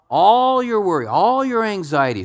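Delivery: "All" drawn high and loud, both times; emphatic ALL. Real, not acted. Pastor answers how much is all, hammering "all". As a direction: punch "All" and "all" at the top of your voice's range.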